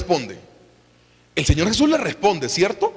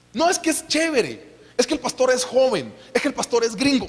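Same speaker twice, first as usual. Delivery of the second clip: higher-pitched mimicked churchgoer; acted enthusiastic churchgoer; 5 semitones higher than usual. Churchgoer explaining why they attend, mock enthusiasm. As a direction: play an eager member making excuses, pitched up.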